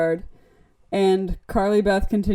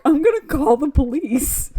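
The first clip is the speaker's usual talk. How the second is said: high, loud mock threat; retold outraged-mom outburst; alarmed mom; 5 semitones higher, 5 dB louder than usual. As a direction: imitate a panicked mother, pitched up and louder. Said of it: "and the mom's like".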